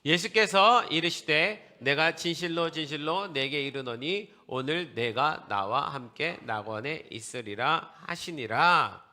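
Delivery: loud, slow, measured verse reading; scripture read-aloud. Real, not acted. Preacher leads congregation reading the verse, loud and measured. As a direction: lead the reading in a strong, drawn-out voice. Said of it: "같이 한번 읽어봅시다".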